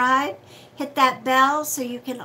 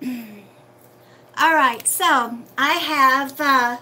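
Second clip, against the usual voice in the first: loud, carrying announcement voice; projecting too hard at the mic; a bit too loud, calling out; yelling; 5 dB louder, much slower than usual. Real, not acted. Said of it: "and I'm yelling".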